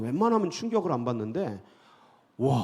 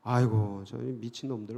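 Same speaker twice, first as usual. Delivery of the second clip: scornful muttering; 3 semitones lower, 4 dB quieter than usual. Retold or imitated. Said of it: "막 욕하고 막 비웃고".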